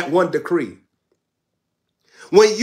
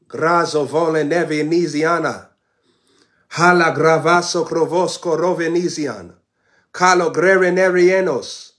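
fluent glossolalia in the preaching flow; speaking in tongues; 3 semitones lower than usual. Real, not acted. Preacher speaking in tongues to the saints. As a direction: pray it out in tongues, unbroken.

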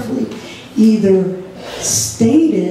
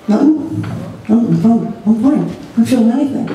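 dismissive denial; faster than usual. Retold or imitated. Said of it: "they're talking like this".

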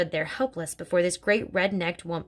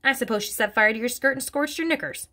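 mildly scornful, a bit higher; snorting scorn; 5 semitones higher than usual. Acted. Headmistress mocking Miss Honey, mild scorn. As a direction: sneer it with a light snort. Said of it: "Miss Trunchbull snorted".

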